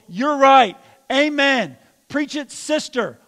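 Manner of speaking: cheering someone on, loud; mock amen corner egging on; hype agreement. Friend egging on the angry venting, loud and excited. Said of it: "Getting around someone else who will".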